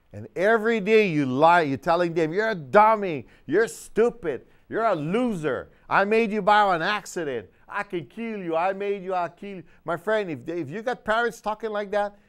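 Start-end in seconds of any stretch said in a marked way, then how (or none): 2.3-9.6 higher, louder mock parent yelling insults; abusive parent. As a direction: play the cruel parent berating the child, higher and louder. Abusive parent voiced at child.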